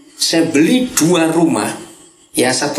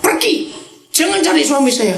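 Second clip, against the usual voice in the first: a higher-pitched mock yell of the wife driving him off; retold yell; 11 semitones higher than usual. Pastor imitating the wife chasing him away, in a high mock yell. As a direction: shout her off the porch, half acted. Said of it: "istrinya ngusir, saya teriak".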